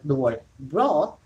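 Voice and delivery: "brawl" drawn out with emphasis; stress on brawl. Shown as a demonstration. Explaining why it's funny, "brawl" stressed. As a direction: lean slowly on the word "brawl". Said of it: "I emphasize the word".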